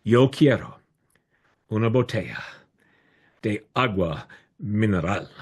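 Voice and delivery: rehearsed classroom pronunciation, carefully spaced; careful language-school Spanish. Retold or imitated. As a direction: recite it word by word like a proud beginner. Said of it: "in my best Sullivan Language School pronunciation".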